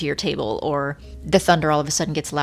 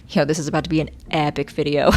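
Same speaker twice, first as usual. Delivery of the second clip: fast, giddy words into a laugh; thrilled laugh at the storm; excited laughing; 3 dB louder, faster than usual. Real, not acted.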